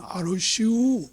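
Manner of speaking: slow, falling 알으시오 in Chungcheong dialect; Chungcheong dialect reply. Retold or imitated. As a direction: drawl 알으시오 down slowly, Chungcheong style. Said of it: "뭘 얘기하면". (충청도 사투리로 느리게 내리는 알으시오)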